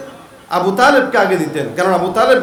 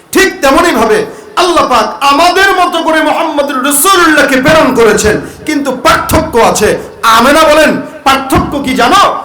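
raised, higher-pitched sermon delivery; impassioned preaching; 5 semitones higher, 4 dB louder than usual. Acted. Preacher tells the congregation what Amena said, impassioned. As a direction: drive the story home to the crowd.

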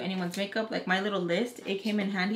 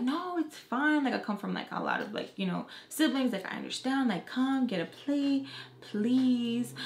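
high, drawn-out friendly pleading; imitated coaxing; 4 semitones higher, slower than usual. Mom urges makeup artist to come eat, coaxing. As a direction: imitate a mom insisting a guest come along.

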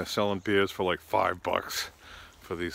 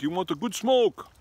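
high, louder put-on hustler voice; pot-selling airport guy; 11 semitones higher, 5 dB louder than usual. Airport worker repeating his weed offer, mock hustler voice. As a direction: repeat the offer with a knowing push. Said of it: "He's like".

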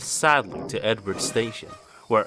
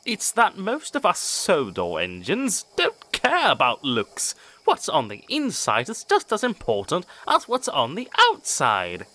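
smiling; 7 semitones higher than usual. Acted. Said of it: "smiled Edward".

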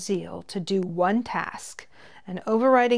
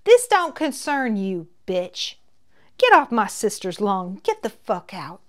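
Ozark twang; 2 semitones higher, 6 dB louder than usual. Acted. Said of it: "went back to the lilting Ozark twang".

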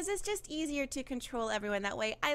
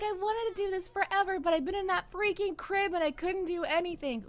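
put-on little boy voice; 5 semitones higher than usual. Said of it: "He's like".

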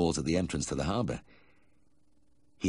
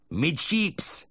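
high called helm order; 10 semitones higher than usual. A narrator's reading. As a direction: sing it out from the bridge. Pilot calling a helm order.

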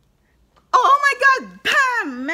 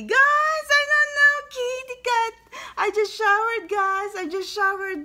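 much higher, louder, gushing burst of excitement; excited squeal; 11 semitones higher, 6 dB louder than usual. Real, not acted. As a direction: squeal it out to the viewers, bursting with joy. Excited outburst mid tarot reading.

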